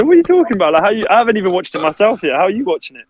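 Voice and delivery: mock outrage at his brother's nitpicking; half-acted disbelief, voice jumping up; incredulous protest. Retold protest at brother's criticism.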